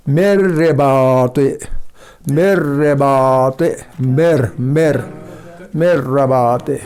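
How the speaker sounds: slow मेरे बाते with a doubled र; slow recitation. Shown as a demonstration. Teacher recites the second example slowly. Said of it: "इसी तरह मेर पढ़ा जाएगा".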